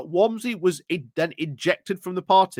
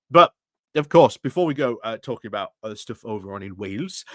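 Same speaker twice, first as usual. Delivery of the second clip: put-on Welsh accent; 4 semitones lower than usual. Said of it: "my weird Welsh attempt at a Welsh accent".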